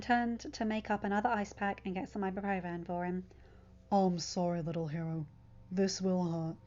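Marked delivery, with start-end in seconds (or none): 3.9-6.6 put-on a gentle low apology to a child; tender Bucky. A narrator's reading. Bucky voiced in story.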